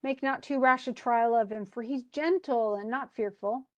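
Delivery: mildly pleading on Miranda's behalf; lightly acted plea, slowing at the end. Daughter begs her father to spare the man, mildly pleading. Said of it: "Miranda starts pleading for him".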